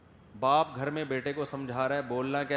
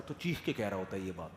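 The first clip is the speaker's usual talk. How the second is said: ordinary talk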